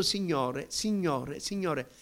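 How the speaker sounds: repeated call slowly picking up momentum; accelerating prayer. Retold or imitated. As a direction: start gathering speed in prayer. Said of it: "acceleravo di più".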